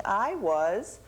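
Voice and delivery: slow, high, drawn-out wail; wailing dove. Acted. Little Dove telling Coyote she was crying, slow high wail. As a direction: stretch it into a sobbing cry.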